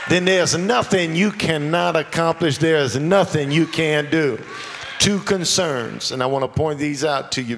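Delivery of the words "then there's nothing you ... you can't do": preaching shout. Real, not acted. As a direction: drive it home full voice.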